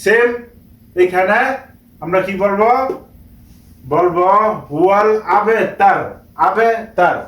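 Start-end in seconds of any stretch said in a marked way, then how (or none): 4.7-7.2 "আবে তার" closed on a vowelless r; sakin stop ending. Shown as a demonstration. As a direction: end "তার" firmly on r, no final "u". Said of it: "সাকিন লাগিয়ে পড়বো".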